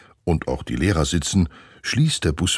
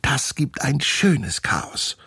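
put-on gleeful girl; 10 semitones higher, slower than usual. Steffi savours the prank.

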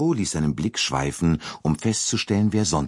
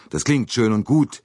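uneasy; 7 semitones higher, 5 dB louder than usual. A narrator's reading. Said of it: "sagte McQueen unruhig".

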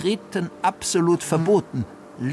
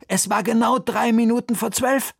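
dramatic urgency; 9 semitones higher, 4 dB louder than usual. A narrator's reading. Dramatic tension.

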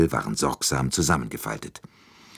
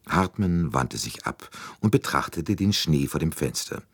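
usual speaking voice

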